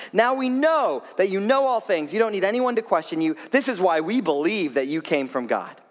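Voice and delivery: a hint of enthusiastic believers; excited disciples. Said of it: "They respond to this very excitedly".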